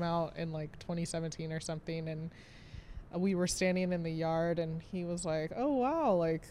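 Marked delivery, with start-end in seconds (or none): 5.5-6.4 retold awe, opening high then settling; awestruck. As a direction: imitate a mildly awestruck visitor. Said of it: "standing there awestruck".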